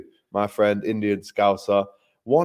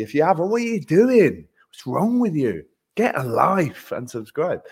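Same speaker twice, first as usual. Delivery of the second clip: mock scolding; 4 semitones higher than usual. Mock scolding viewers who haven't subscribed.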